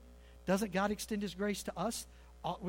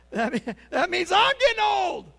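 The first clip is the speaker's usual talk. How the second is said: mock realization; 9 dB louder than usual. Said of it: "You look around going".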